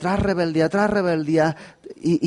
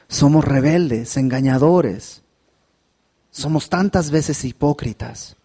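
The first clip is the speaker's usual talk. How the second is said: earnest pastoral prayer voice. Acted. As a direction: pray sincerely for the congregation. Leads closing prayer. (oración sincera del pastor)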